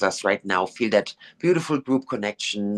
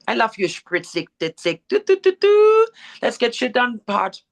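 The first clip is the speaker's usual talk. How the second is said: ditzy busy energy; 12 semitones higher, 4 dB louder than usual. Retold or imitated. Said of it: "imitating Donna's busy energy".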